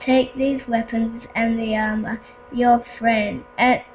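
lightly voiced game villain; slow, solemn villain commands. Voices map villain giving orders.

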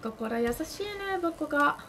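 normal talking voice

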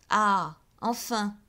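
a loud, slowed sigh of relief; relieved. A narrator's reading. Department head relieved the silks are finished. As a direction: breathe it out, finally done. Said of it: "murmura Boutemont, soulagé".

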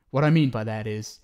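ordinary delivery

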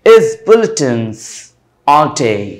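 "Is bulletins all day" read slowly, leaning on BULL, TINS and DAY; iambic stress demonstration. Shown as a demonstration. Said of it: "तो कैसे पढ़ेंगे?". ("Is bulletins all day" धीरे, BULL, TINS, DAY पर बलाघात के साथ)

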